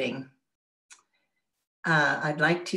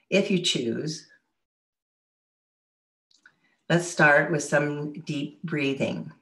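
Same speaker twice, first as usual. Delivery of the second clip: unhurried meditation guide, long pauses between phrases; guided meditation. Real, not acted. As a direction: lead listeners gently through breathing and relaxation. Leads a guided relaxation.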